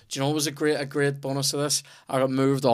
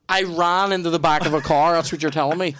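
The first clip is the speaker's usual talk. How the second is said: incredulous; 4 semitones higher, 5 dB louder than usual. Retold or imitated. Retells challenging the policeman's accusation.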